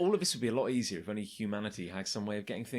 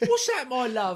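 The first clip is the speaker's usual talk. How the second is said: much higher, louder mock character voice; silly squeaky voice; 11 semitones higher, 5 dB louder than usual. Friend joins the riff in a silly high voice. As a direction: squeak it out like a cartoon yokel.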